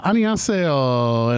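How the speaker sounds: slow, careful Korean "Annyeonghaseyo"; Korean greeting. Shown as a demonstration. Host showing off Korean to his Korean guest, slow careful greeting. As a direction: spell out "Annyeonghaseyo" slowly, syllable by syllable. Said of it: "So I know a little bit of".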